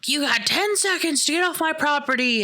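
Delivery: put-on high, menacing old woman voice; threatening old lady. Old lady with a shotgun orders them off her land, menacing high voice.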